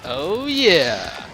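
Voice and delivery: distant, hollow voice on a bad line; tunnel sound. Real, not acted. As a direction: sounds like talking from inside a tunnel. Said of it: "You sound like you're in a tunnel".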